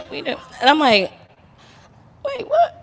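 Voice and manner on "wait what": high, startled disbelief; shocked wait what. Retold or imitated. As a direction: blurt it out in shock. Friends say they already knew.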